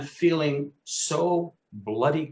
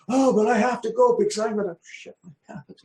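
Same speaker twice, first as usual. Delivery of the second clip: urgent panic; 9 semitones higher than usual. Retold or imitated. Desperate rush to the toilet.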